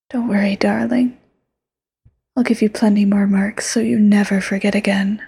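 whispered yandere lover. Acted. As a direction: close whisper, sweet and possessive.

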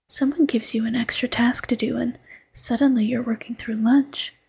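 intimate ASMR whisper, close to the mic. Acted. Fox girlfriend coaxing her tired partner to eat, whispering. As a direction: coax him gently in a hush.

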